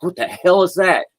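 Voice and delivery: high-pitched, mock-startled outburst; startled alarm. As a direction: act baffled by a mysterious rumble. Acting listeners startled by bass.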